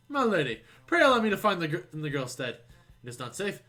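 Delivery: a touch of formal, pompous heroism; lightly voiced gallant gentleman. Gentleman pleads to search in girl's stead, mildly pompous. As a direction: lightly play an earnest would-be knight.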